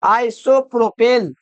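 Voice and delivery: आइसोप्रोपेल said slowly, each part clear; teacher dictates the name slowly; slow dictation. Shown as a demonstration. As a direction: read आइसोप्रोपेल out slowly while writing. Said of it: "प्रोपेल लिखेंगे ना".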